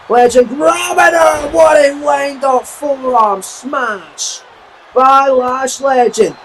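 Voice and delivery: rising, slowed yell at the big hit; excited shout. Real, not acted. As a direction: call the smash with a rising roar. Big forearm smash call.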